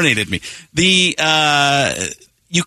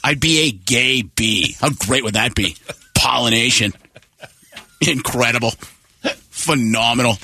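Harvey Fierstein impression. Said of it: "He's doing it now".

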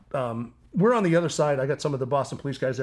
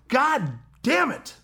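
high, slow exasperated yell; frustrated yell; 10 semitones higher, much slower than usual. Retold or imitated. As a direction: curse it out as the buck gets away. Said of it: "puts the gun down and yells".

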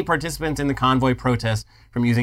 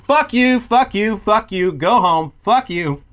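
angry yelling; 7 semitones higher, slower than usual. Retold or imitated. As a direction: yell it down from the balcony, fed up. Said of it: "they're just standing out on their balcony and they're just like".

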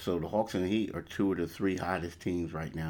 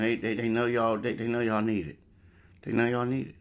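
excited; 5 semitones higher, 5 dB louder than usual. Real, not acted. Hyped about sponsor deal.

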